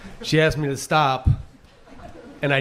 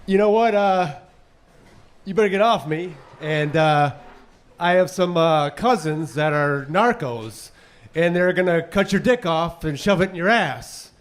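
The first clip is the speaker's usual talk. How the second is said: wife's threat; 3 semitones higher, slower than usual. Retold or imitated. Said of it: "She said".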